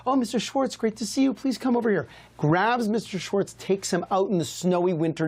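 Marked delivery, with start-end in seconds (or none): 0.1-2.1 a lightly voiced, overly friendly greeting, higher; fawning rabbi. Rabbi warmly greeting the rich man at his door. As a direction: gush a welcome at the door. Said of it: "He says".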